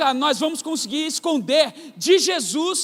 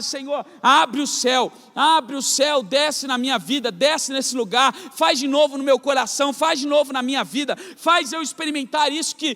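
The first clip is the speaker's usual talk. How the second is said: prece intensa e um pouco mais alta, ditada como um clamor; oração fervorosa. Retold or imitated. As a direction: clame ao Senhor como na oração diária. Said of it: "Então todos os dias eu oro". (oração fervorosa recitada em clamor)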